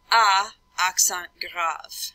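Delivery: "A" as French "ah", then "accent grave" drawn out slowly; slow, clear French spelling; French spelling aloud. Shown as a demonstration. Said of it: "you say the letter and then".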